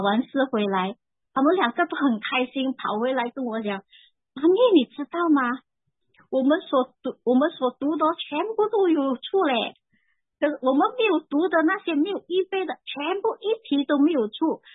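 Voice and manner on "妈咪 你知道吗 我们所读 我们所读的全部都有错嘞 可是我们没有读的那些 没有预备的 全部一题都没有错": put-on higher, eager kid voice bursting with news; excited children. Kids running home to tell Mommy about the exam, excited and high.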